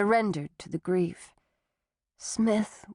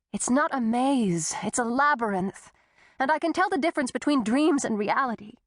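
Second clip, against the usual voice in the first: higher, fast protest; insistent; 4 semitones higher than usual. Acted. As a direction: push back hard. Tessa defiant.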